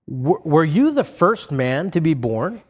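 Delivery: slow, sarcastic question. Acted. Eliphaz mocking Job as if first man born, sarcastic. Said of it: "You can just hear the sarcasm here".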